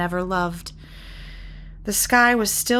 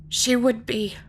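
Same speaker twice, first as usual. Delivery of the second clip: sniffing; 4 semitones higher than usual. Acted. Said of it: "Molly sniffed".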